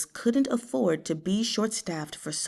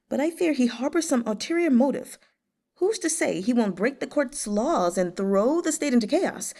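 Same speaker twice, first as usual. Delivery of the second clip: higher, worried eunuch Fu Man; a fretful court eunuch, pitched higher; anxious eunuch; 5 semitones higher than usual. Acted. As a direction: plead your worry to his lordship.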